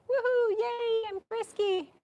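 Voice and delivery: squeaky playful mare voice; frisky horse. Pretend. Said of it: "she's kinda like".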